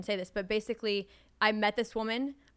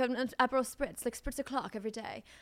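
fake British accent held throughout; 3 semitones higher than usual. Two speakers chatting about Italians being chill, joking around; fake British accent. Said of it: "I don't know why we're doing British accent".

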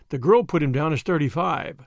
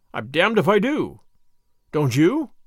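ordinary delivery, nothing marked

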